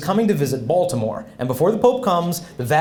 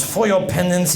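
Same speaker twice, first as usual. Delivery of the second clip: French priest handing down penance; French accent; 4 semitones higher than usual. Retold or imitated. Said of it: "there's a priest visiting from France".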